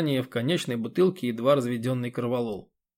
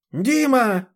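high, loud scream of a name; an old woman screaming down the phone to her son; 11 semitones higher, 6 dB louder than usual. A narrator's reading. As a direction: shriek loud enough to scare the crows. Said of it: "завопила она".

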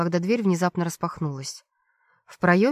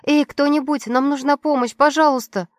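high, loud desperate calls through a door; loud cry for help through a locked door; calling for help; 7 semitones higher, 5 dB louder than usual. Acted. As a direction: bang on the door and shout for help.

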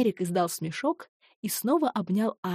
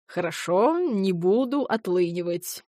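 meek agreement. Acted. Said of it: "с кротким видом кивнул".

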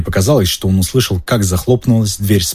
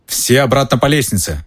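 commanding; 4 semitones higher than usual. Acted. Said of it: "приказал Перси".

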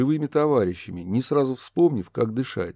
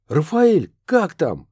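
high, loud call for help; 7 semitones higher, 6 dB louder, slower than usual. A narrator's reading. Kurt calling to the ghost, high loud call. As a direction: shout across the fight.

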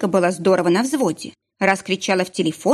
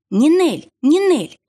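louder, higher repeated name; impatient insisting; 8 semitones higher, 5 dB louder, slower than usual. A narrator's reading. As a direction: cut in firmly. (нетерпеливо и громче)

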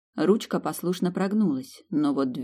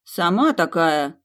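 slow, louder huffy comeback; hurt comeback; offended retort; 4 dB louder, slower than usual. Acted. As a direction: take offence and fire back. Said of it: "оскорбилась Кендра".

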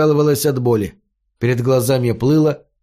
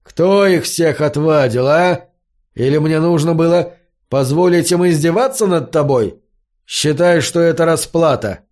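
angry reproach; 3 semitones higher than usual. Acted. Elm keeps berating Fari.

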